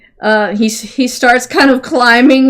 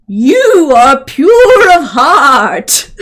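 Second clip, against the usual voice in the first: slow, drawn-out, a little louder pronouncement; sudden new horse voice; 2 semitones higher, 5 dB louder, much slower than usual. Acted. Horse to Seamus on the silo, in a slow solemn voice. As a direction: stretch each word like an oracle horse. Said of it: "I changed his, his voice all of a sudden".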